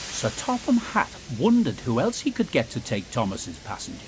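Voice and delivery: usual speaking voice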